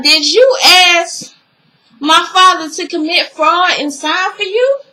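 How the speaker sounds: mock angry accusation; angry confrontation. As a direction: demand it like a betrayed daughter. Angry daughter confronting him.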